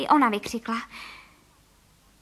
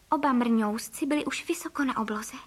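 usual speaking voice

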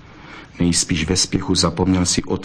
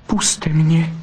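a vixen begging him to let go, higher; pleading; 8 semitones higher than usual. A narrator's reading. Vixen begging Zlatohřbítek to release her, pleading. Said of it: "zaprosila Bystrouška".

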